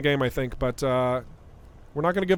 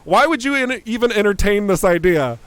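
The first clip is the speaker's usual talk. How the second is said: imitating a colleague; 3 semitones higher, 3 dB louder than usual. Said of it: "I know they're just going".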